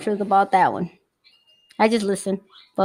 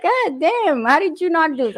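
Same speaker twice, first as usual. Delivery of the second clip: retold amazement; 5 semitones higher than usual. Retold astonishment at son's skill.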